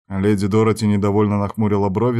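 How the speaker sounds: ordinary delivery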